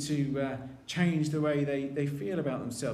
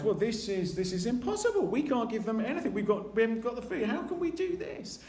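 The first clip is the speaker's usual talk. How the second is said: higher and faster, rising alarm; panicked disbelief; 5 semitones higher than usual. Retold or imitated. Disciples realising they have no food, panicky and fast. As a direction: fret that it cannot be done.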